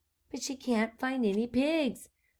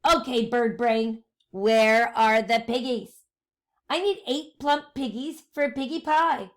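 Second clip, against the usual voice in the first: witch voice; 5 dB louder than usual. Acted. Witch Gritch demanding piggies.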